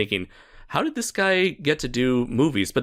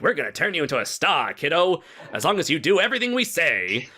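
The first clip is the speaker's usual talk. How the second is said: lightly voiced old-time studio boss; a hint of a higher, slick producer voice; smooth-talk the kid like a studio head; Hollywood producer; 6 semitones higher than usual. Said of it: "This is my Hollywood producer man voice".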